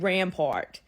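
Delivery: "rampart" said slowly as the New Orleans woman says it; local pronunciation. Retold or imitated. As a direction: imitate her local "rampart", drawn out. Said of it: "the way that that woman, she had said".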